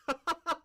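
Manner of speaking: high, loud cackle; real burst of laughter. Real, not acted. Speaker amused by an abrupt segue, high loud laugh.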